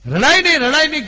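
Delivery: high, loud pleading રડાય નહીં with stress on રડાય; a mother loudly begs her daughter to stop crying, high and urgent; mother's urgent hush. Retold or imitated. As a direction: insistently hush the crying girl. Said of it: "કીધું બે વાર".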